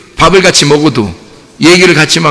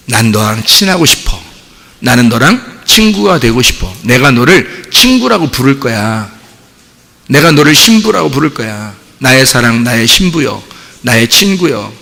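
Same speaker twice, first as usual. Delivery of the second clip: tender divine voice; 4 semitones lower than usual. Retold or imitated. Voicing God's tender words.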